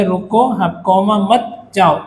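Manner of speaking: "रुको", comma break, then "मत जाओ"; pause after रुको. Shown as a demonstration. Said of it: "हमने यहाँ पर हाफ कॉमा लिया".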